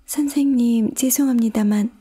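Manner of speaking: put-on high, hesitant girl's voice; politely and tentatively ask for attention, pitched high. A narrator's reading. Alice approaching the rabbit for help, hesitant. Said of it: "머뭇거리며 말했다".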